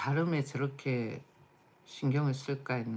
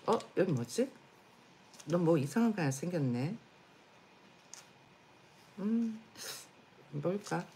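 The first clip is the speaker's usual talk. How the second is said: talking to a pet; 5 semitones higher than usual. Real, not acted. Fussing over the dog.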